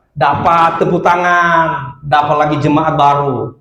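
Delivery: slow, drawn-out mock glee; gloating devil. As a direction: stretch the words like a triumphant devil. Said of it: "ketawa si iblis". (iblis girang penuh kemenangan)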